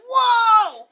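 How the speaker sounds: a loud, high, laughing "Whoa!"; amazed whoa. Retold or imitated. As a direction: blurt it out like he's been struck by her. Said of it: "He's like".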